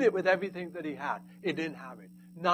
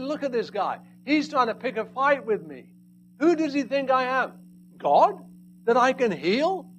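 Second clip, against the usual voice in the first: loud, rising outrage, stronger toward God; angry king; 6 semitones higher, 6 dB louder than usual. Acted. King reading the letter, loud and outraged. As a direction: rant like an insulted king. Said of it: "He's so angry".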